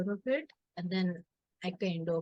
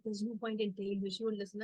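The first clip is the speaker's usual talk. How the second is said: softer mock resignation; retold eye-rolling dismissal; 6 dB quieter than usual. Brother to family about stubborn sister, mock dismissive. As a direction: imitate a brother giving up, quietly. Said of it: "like, rolling his eyes".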